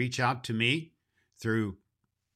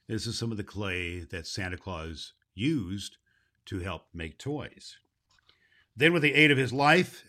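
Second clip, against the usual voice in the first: put-on steady storybook reading for children; story narration. A narrator's reading. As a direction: read the chapter aloud to the kids. Reads the Baum story aloud.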